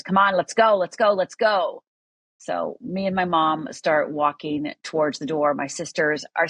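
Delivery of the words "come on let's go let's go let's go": urging call, a little raised; mild retold yell. Father calling the sisters to leave, mild retold yell. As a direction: hurry them along with a mock yell. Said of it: "yells to my sisters".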